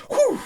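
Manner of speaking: mimicked whew. Imitating his reaction to the spark.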